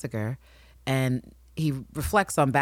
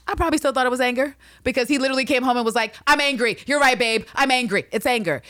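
high mock outburst; 9 semitones higher, 4 dB louder, faster than usual. Will retold, high and loud.

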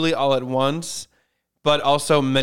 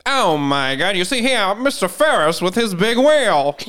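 higher, louder showman announcer; World Fair announcer; 6 semitones higher, 5 dB louder than usual. Pretend. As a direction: hype up the big wheel like a fairground barker. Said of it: "an announcer at the World Fair".

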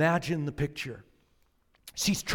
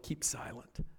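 voiceless "Keep silent" with falling tone; whispered hush; 3 semitones lower, 10 dB quieter than usual. Retold or imitated. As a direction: breathe "Keep silent" as a warning. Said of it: "have been told".

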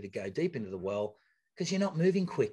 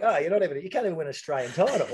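higher, louder, fast taunting voice; mocking rivals; 4 semitones higher, 3 dB louder, faster than usual. Athlete mocks rivals taunting each other in a higher voice. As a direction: sneer it quickly like a rival. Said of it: "So they're like".

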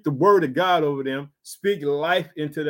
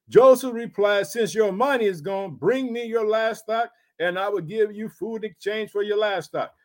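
raised, measured Bible reading voice; scripture reading; 2 semitones higher than usual. Acted. Preacher reading Genesis to his congregation, raised and measured. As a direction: read the verses out to the congregation.

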